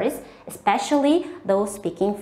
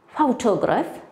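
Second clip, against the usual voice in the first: "photograph" stressed on the first syllable, PHO; careful model of "photograph", first syllable prominent; word stress demonstration. Shown as a demonstration. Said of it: "We say one syllable very loudly".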